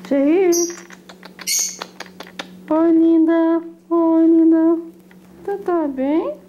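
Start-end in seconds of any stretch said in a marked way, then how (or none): 2.7-4.8 louder, doting hello to a pet; cooing greeting. Real, not acted. Greeting the pet in baby talk. (saudação dengosa, em voz mais alta)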